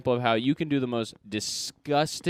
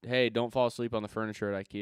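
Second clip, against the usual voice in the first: NPC voice; 4 semitones lower, 7 dB quieter, faster than usual. Pretend. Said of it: "here's N P C pr-, uh, culture".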